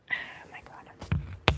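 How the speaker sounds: drawn-out whisper under her breath; slow exasperated whisper. Real, not acted. Streamer whispering while the cats squabble over a pouch. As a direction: whisper it slowly, at wit's end.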